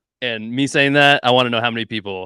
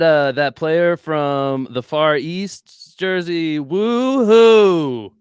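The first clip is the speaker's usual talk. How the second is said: mock joke; 4 semitones higher, 5 dB louder, much slower than usual. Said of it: "was that a bad taste joke".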